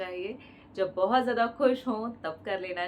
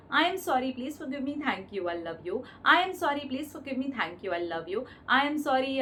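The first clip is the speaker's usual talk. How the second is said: mantra recitation; 2 semitones higher, much slower than usual. Acted. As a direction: chant it evenly, round after round. Repeats the prayer as mantra. (लयबद्ध प्रार्थना का जाप)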